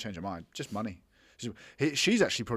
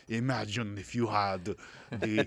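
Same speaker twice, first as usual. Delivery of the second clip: mock intense bloke; 2 semitones lower than usual. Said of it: "This guy's like".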